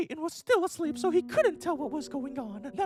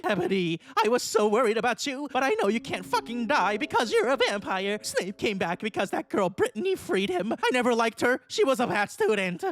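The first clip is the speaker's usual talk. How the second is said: low teacher voice; 5 semitones lower than usual. Acted. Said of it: "in a relieved voice".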